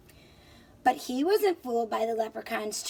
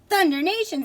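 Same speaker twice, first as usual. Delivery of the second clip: higher, louder oath; excited exclamation; 5 semitones higher, 6 dB louder than usual. Acted. Tom exclaiming at the leprechaun's gold, higher and louder. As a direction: burst it out in surprise.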